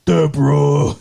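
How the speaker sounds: mild sitcom-husband call to his wife; lightly voiced Ray Romano yelling for Deborah. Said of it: "now you sound like Ray".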